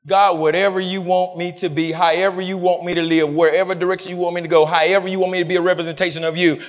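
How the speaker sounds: low-pitched prayer address; spoken prayer. Acted. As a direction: pray it personally in a low running flow. Leads into a spoken personal prayer.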